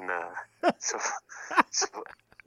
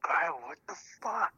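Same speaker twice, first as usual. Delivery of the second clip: retold mad partner; 9 semitones higher than usual. Caller retells partner's anger over the chocolate, mock indignant. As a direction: mimic an angry scolding at normal volume. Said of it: "And she was so mad".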